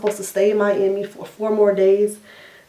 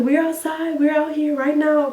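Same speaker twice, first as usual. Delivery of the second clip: a higher, lightly voiced niece answering; imitating her niece; 8 semitones higher than usual. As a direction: play the niece calmly saying they're here. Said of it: "She's like".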